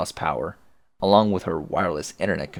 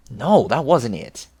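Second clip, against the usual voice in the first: mock correction; 4 semitones higher, 4 dB louder, slower than usual. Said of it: "Flighty Broad".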